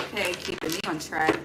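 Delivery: usual speaking voice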